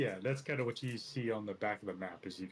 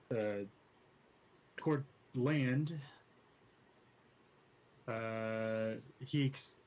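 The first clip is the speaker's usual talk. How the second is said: reading a legend aloud, storyteller style; story narration. A narrator's reading. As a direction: tell it like an old sea legend. Reads the map's tale aloud.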